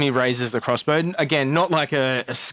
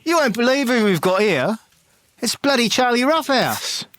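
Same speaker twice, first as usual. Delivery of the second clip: guard recognizing a feared brawler; exasperated guard; 9 semitones higher than usual. Acted. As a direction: groan it up to your mate. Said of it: "he goes".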